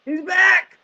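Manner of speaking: high, excited cheer; hyped shout. Real, not acted. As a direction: burst in shouting with joy. Co-host's hyped entrance.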